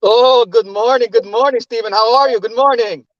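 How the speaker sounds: a hint of a German accent. Real, not acted. Caller greeting the host Stephen, slight German accent. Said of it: "you got that German accent a little bit".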